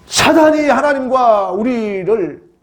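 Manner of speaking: high, slow, drawn-out proclamation; emphatic preaching. Real, not acted. Preacher naming Satan as the separator, emphatic. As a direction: proclaim it slowly with full weight. Same statement repeated with force.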